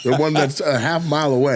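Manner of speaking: laughing through the words; amused, cracking up mid-line. Real, not acted. The host laughing at Ralphie's beer order, said through laughter.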